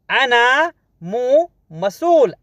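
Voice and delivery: "अना मो मसूल" drawn out slowly with "मसूल" lifted; slow, careful repeat. Shown as a demonstration. Teacher models the Arabic phrase slowly for students. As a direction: stretch each word of "अना मो मसूल" for learners.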